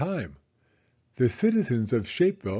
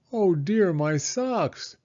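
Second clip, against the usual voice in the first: dismayed cry; 6 semitones higher, slower than usual. Acted. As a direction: fret over the socks. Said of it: "cried a young man".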